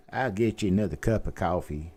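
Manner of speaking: light Memphis accent, "coffee" as kʰaʊfi; a hint of a Tennessee waitress; Mid-South accent. Shown as a demonstration. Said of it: "accent would be Mid-South".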